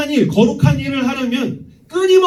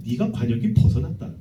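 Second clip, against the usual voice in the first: 낮고 무겁게 꾸짖는 하나님; 위에서 내려다보듯 낮게 선고하듯; 하나님의 목소리; 9 semitones lower, 5 dB quieter than usual. Acted. God rebukes humanity. (낮은 목소리로 꾸짖는 하나님)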